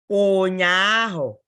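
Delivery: Ụnyaahụ said slowly and loudly, every syllable spelled out; teacher drills Ụnyaahụ for the class, slow and loud; slow teaching demo. Shown as a demonstration. Carefully drawn out. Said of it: "We say ụnyaahụ".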